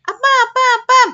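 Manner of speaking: excited calling. Acted. Child calling father again.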